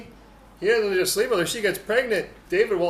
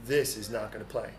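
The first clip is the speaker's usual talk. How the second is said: much lower, stern and final; stern God voice; 10 semitones lower, 7 dB quieter than usual. Retold or imitated. God rejecting David's cover-up, low stern verdict. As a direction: lay down the divine verdict.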